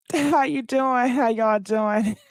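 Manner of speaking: slow, high, giggly hello; laughing greeting. Real, not acted. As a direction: greet them through a laugh.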